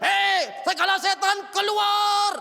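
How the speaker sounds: high, loud victory cry casting out demons; triumphant shout. Retold or imitated. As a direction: shout it like a preacher rebuking spirits. Preacher acting his shouted deliverance prayer. (teriakan kemenangan mengusir setan)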